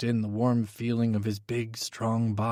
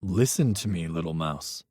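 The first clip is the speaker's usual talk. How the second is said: calm; 5 semitones lower than usual. Acted. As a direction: settle him down gently. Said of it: "I said calmly".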